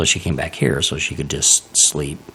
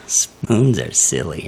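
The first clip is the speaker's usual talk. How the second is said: slow, dreamy spoons are silly; slow drugged quote; much slower than usual. Retold or imitated. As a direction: drawl it out like a groggy patient. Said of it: "Is that what you said?".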